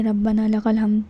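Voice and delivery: words of the phrase run together; hurried recitation. Shown as a demonstration. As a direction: show the rushed way people recite it. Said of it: "جلدی سے پڑھ لیتے ہیں".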